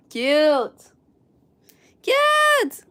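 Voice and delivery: very high squeal on Cute. Real, not acted. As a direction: coo it like you adore it. Cooing over crocheted figure.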